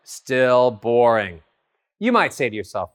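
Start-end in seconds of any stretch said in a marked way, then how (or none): 0.0-1.4 monotone. Shown as a demonstration. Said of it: "It's boring me now".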